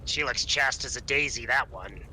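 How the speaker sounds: seductive demon purr. Retold or imitated. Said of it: "Aesop mimics a incubus voice".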